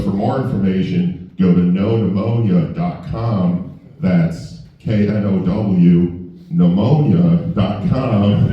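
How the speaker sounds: slow, deliberate spelled-out web address; mock commercial read, lingering over the address; radio ad read. Comic imitates quarterback's pneumonia website commercial, measured ad read. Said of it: "He's doing a commercial".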